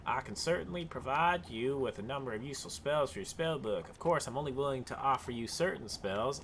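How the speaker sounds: put-on Southern accent. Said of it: "solidified ourselves into Southern".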